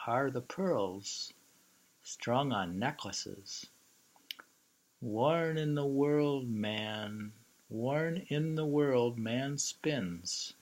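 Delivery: slow, measured haiku recital; poem reading. Acted. Speaker reciting a haiku to the listener, slow and measured. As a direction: savour each image slowly.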